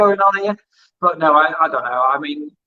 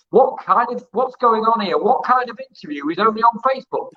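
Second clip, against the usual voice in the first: higher-pitched imitation of an affronted complaint; retold indignation; 6 semitones higher than usual. Musician objects to his Facebook interview, retold indignation. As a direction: question it in mock disbelief, pitched up.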